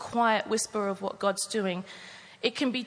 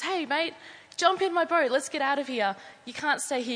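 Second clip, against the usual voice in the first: calling out; 5 semitones higher than usual. Acted. Rowboat rescuer calling to stranded man.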